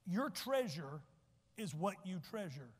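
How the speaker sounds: slow repeat with long pause; deliberate teaching repeat; said slowly again. Shown as a demonstration. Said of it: "so I'll say it twice".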